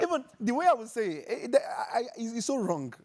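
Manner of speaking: high laughing speech; laughing through words. Real, not acted. Mother explaining her bad French, laughing words.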